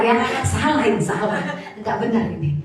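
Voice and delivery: loud, laughing while talking; amused and chuckling out loud. Real, not acted. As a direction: laugh through the words. Laughing over the costly mistake.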